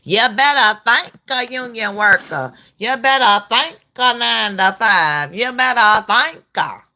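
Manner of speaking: high, exaggerated put-on Black accent; mock Black accent. Host mimicking a politician thanking union workers, mock Black accent. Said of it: "Did y'all hear the black accent".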